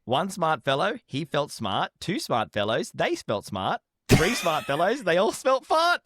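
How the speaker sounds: careful tongue twister that slips at the end; tongue twister attempt. Shown as a demonstration. Co-host takes his turn at the tongue twister, stumbling at the end. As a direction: try the tongue twister, fumble the last word. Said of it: "let me try".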